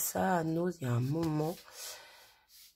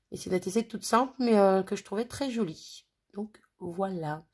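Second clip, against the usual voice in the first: sniffling; 3 dB louder than usual. Real, not acted. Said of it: "désolée, je renifle".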